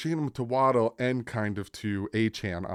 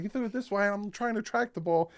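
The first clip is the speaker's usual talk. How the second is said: imitating Tyreek; 11 semitones higher than usual. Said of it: "he's like".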